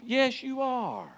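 high and slow, firm; firm rebuttal. Acted. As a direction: insist slowly. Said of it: "preacher rebuts congregation".

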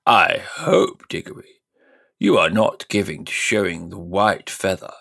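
lightly pompous, condescending uncle; high and mighty. Acted. Uncle shaming the nephew, mildly high and mighty. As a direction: talk down like a benefactor. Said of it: "in a very high and mighty voice".

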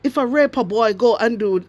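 lightly mimicked minister, standard English; a hint of Delroy Chuck's proper speech; quoting Delroy Chuck. Vlogger quoting Delroy Chuck mocking his words, light standard English voice. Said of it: "Delroy Chuck say".

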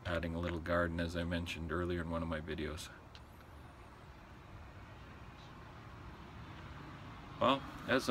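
speaking with pipe in mouth; talking around pipe stem. Real, not acted. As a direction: pipe clenched in lips. Seen 2: Stem between lips from 3.2s on; briefly at mouth near start.

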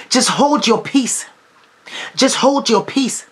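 slow, steady and deliberate; slow calm counsel. Acted. Preacher calming an anxious congregation, slow and steady. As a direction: lay each word down gently.

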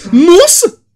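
high, loud surprised cry; mock thrilled shout; excited exclamation. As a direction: burst out in delight. Character exclaims.

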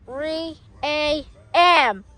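very slow, each word set apart; dramatic announcement. Pretend. Announcing the witching hour, slow and dramatic. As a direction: draw out each part ominously.

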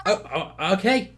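normal talking voice

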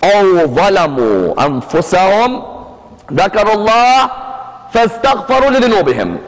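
measured, level-toned Arabic recitation; reciting scripture in Arabic; Quran recitation. Shown as a demonstration. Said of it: "the verse said".

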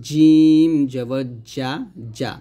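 long loud "জিম", "যা" off the palate; mid-tongue to palate for "যা"; palatal jim. Shown as a demonstration. Teacher models jim without touching teeth, palatal "যা". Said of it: "তালুর সঙ্গে লাগবে".

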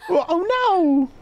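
alarmed. Acted. Panicked exclamation in character.

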